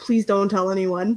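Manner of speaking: put-on whispering voice. Retelling what a player said at the start of a match: imitating someone whispering. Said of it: "he whispers, like, low-key".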